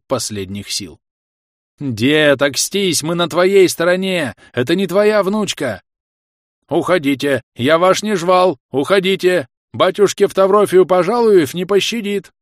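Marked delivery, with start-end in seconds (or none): 1.8-5.8 loud, urgent shout; pleading shout. Acted. Pale man yelling at grandpa. 6.7-12.3 put-on loud, high lisping old man's threat; furious grandpa.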